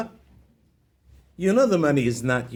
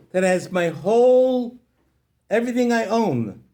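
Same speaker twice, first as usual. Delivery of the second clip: tearful lament; 5 semitones higher, 4 dB louder than usual. Acted. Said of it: "he bursts out crying".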